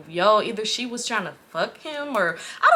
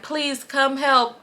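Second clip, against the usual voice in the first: slow, higher-pitched begging; mock plea; 4 semitones higher, much slower than usual. Storyteller begging for rescue on video, mock plea. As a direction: drag out a pretend cry for help.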